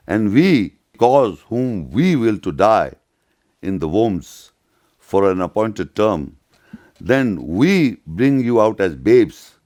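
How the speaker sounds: slow, measured recitation of a verse; scripture reading. Acted. Lecturer reading the verse to listeners, slow and measured. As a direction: read the verse slowly, weighing each phrase. Reads a Quran verse aloud.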